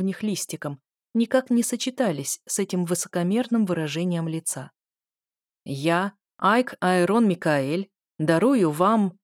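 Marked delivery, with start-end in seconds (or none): 5.6-9.2 lofty, slow royal proclamation; pompous senator oratory. Acted. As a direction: declaim it grandly, very slowly. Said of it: "с высокопарного тона".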